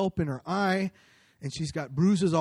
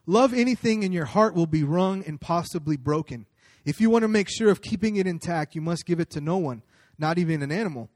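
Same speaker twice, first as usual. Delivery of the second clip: reading a quotation; 3 dB louder than usual. Shown as a demonstration. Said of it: "what C S Lewis has to say".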